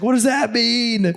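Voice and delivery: high, slow, drawn-out mock exasperation; exasperated imitation. Hunter baffled by guide's slang, exasperated.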